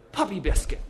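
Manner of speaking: abrupt outburst; sudden blurt. A narrator's reading. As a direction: blurt it out as it pops into mind. Mitty blurts out a remembered errand.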